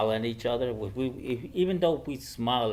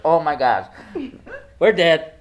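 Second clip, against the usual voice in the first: mock panicked yell; 7 semitones higher, 14 dB louder than usual. Boys realizing disaster.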